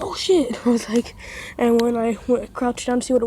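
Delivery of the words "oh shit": a mild retold yelp of fright; mock scream. Retelling being startled by the cat, mild mock yelp. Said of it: "And I screamed".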